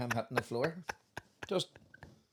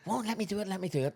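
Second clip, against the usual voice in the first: higher mock Brummie pleading; put-on Birmingham accent; 6 semitones higher, faster than usual. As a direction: beg eagerly in an imitated Birmingham accent. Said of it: "I remember that wee accent".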